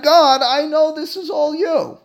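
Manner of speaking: high, loud, slow cry to God; yelling out to God. Shown as a demonstration. Teacher demonstrates crying out to God, high and loud. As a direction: call it out with full faith, slowly. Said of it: "all it takes is yelling out that".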